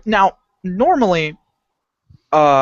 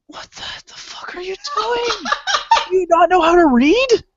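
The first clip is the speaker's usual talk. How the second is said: laughing disbelief shout. Retold or imitated. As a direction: shout it while cracking up at her. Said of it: "I sat there and I'm like".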